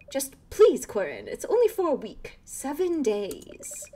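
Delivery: a touch of a nagging mother pleading; pleading mom. Acted. Mom's dialogue voiced.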